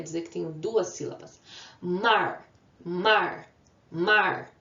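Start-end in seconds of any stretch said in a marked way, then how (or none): 1.8-4.5 Mar as a single firm beat, repeated with gaps; Mar, isolated and emphatic each time; one-syllable demonstration. Shown as a demonstration. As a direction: punch each Mar out on its own. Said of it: "Eu abri a boca uma vez".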